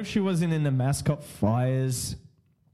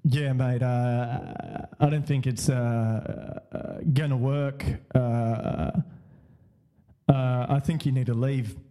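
lower, hesitant bouncer voice; security guard; 5 semitones lower than usual. Retold or imitated. Security guard asking him to leave, lower and halting. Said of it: "he was like".

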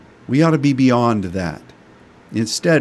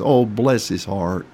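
Southern sweet pity; 3 semitones lower than usual. Shown as a demonstration. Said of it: "That just means that guy sure is screwed up".

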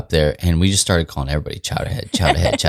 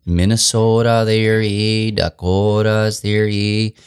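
put-on a light Dakota accent, slowed on Dakotas; lightly imitating the Dakota booth lady's accent; 3 semitones higher, much slower than usual. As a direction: sketch a mild Upper Midwest Dakota twang. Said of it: "she had the most Dakota accent".

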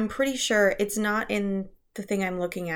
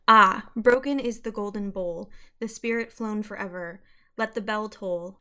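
poem reading. Shown as a demonstration. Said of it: "I'll read the, um, excerpt from Lenore".

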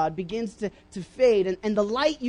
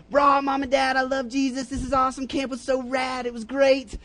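put-on pumped kid; 3 semitones higher than usual. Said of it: "you go home, and you're like".

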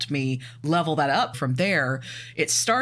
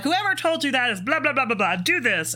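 high-pitched, hammed-up brushing-off; exaggerated dismissal running into babble; mock dismissive doctor; 10 semitones higher than usual. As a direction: mimic a know-it-all waving away advice. Mimics doctor dismissing previous doctor.

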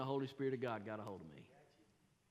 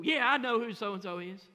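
curt irritation; 6 semitones higher, 12 dB louder than usual. Retold or imitated. Snapping at the debt collector.

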